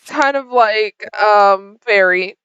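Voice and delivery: halting, evasive stammer in character; awkward hesitation. Acted. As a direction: stall between words like someone caught out. Guilty characters stammer an answer.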